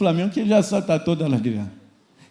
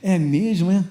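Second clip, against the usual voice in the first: mock-intrigued prodding; feigned interest, coaxing out gossip; egging on a gossip; slower than usual. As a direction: play the nosy listener fishing for more. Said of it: "Aí você atiza mais".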